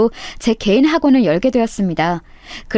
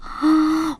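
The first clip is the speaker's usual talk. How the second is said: mock gasp; 6 semitones higher, 4 dB quieter than usual. 놀란 척하는 동창.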